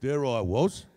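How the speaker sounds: broad Australian mate voice; Australian accent. Shown as a demonstration. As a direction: spin a yarn like an Aussie bloke. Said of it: "add an accent".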